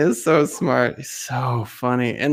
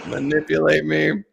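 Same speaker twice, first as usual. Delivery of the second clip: amused accusation; 4 semitones higher than usual. Retold or imitated. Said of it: "I'm like".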